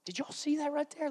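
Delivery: hushed, breathless whisper of disbelief; the camp whispering in awe at the river. Acted. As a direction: lean in and whisper to a neighbour. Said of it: "whispers go through the camp".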